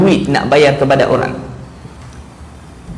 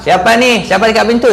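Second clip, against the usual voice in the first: higher, puzzled call through the door; higher voice asking who is at the door; surprised homeowner; 7 semitones higher than usual. Acted. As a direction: call out to an unexpected knock. Homeowner answers knock.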